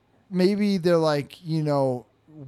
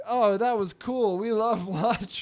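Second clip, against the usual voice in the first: slow, pitched-up fake approval; humouring adult; 6 semitones higher, slower than usual. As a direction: praise a child's odd idea generously. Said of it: "We're like".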